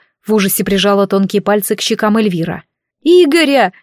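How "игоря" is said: high, loud tearful cry of the name; blurted cry. Acted. Madina crying out her boyfriend's name to her friends. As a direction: blurt the name out through tears.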